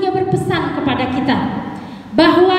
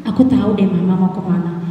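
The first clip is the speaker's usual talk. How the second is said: lightly voiced lower little bear, scheming; a hint of a cub talking himself into mischief; little bear Imo; 4 semitones lower than usual. Little bear deciding to wander off, lightly voiced.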